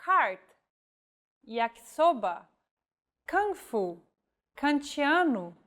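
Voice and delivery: every K a hard English K, cart and kantiano alike; crisp hard K in each example. Shown as a demonstration. Teacher lists K words for learners, hard English K sound. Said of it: "the letter K is read just like in English".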